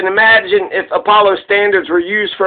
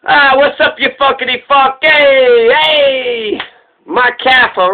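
higher, warm buddy greeting; friendly tone; 4 semitones higher, slower than usual. Shown as a demonstration. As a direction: greet him like an old friend. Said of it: "it's the tone".

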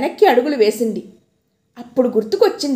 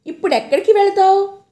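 menacing lion; 8 semitones higher, 5 dB louder, faster than usual. A narrator's reading.

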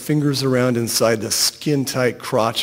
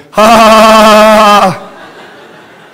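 loud, high, drawn-out wild laugh; 9 semitones higher, 13 dB louder, much slower than usual. A narrator's reading. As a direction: blast out a high performed cackle.

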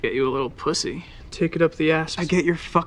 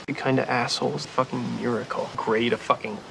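swearing tirade. Acted. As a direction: build to a furious rant. Rapid-fire swearing montage.

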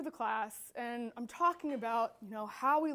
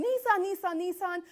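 raised, insistent mock rant; imitated ranting customer; 4 semitones higher, 4 dB louder than usual. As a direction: hammer the word out like a demanding customer. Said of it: "he's screaming at me about this Nissan".

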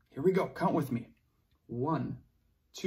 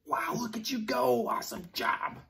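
whispering; 7 semitones higher, faster than usual. Real, not acted. Praising kids working hard.

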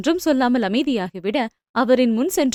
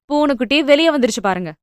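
mocking; faster than usual. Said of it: "நக்கலாக உரைத்தாள்".

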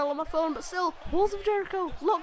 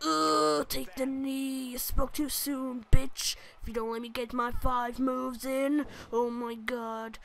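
cocky Triple H; slower than usual. Retold or imitated. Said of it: "He's just like".

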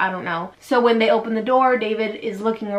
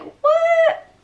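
very high, louder shocked squeak; a stunned, high "What?" yelped out; David shrieking in disbelief at the news; 5 dB louder than usual. Retold or imitated. David hears the babies are his.

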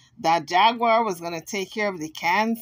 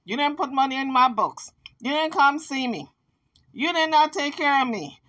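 higher mock whine; whiny broken record; 5 semitones higher than usual. Vlogger mocking the Kansas's endless complaint, higher and whiny. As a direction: drone the same complaint, pitched up. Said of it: "the same old narrative".

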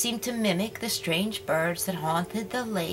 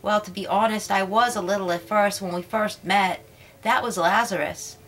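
the little mermaid telling her tale, lightly played; lightly voiced mermaid; 5 dB louder than usual. Little mermaid telling Sweet Tata about her friends, lightly voiced.

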